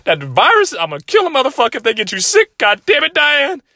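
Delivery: high furious rant at his mom Diane; furious scolding. Retold or imitated. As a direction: scream orders at your mother. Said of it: "I said".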